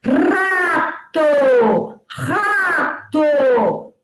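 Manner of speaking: slow, each syllable stretched out. Shown as a demonstration. Teacher showing pupils how many pieces a word has, slowly syllabifying. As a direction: break "Rato" into a long "ra" and a long "to". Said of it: "Fale pausadamente, silabando".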